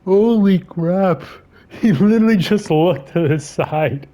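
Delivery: talking through giggles; can barely get words out for laughing. Real, not acted. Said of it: "I can't stop laughing".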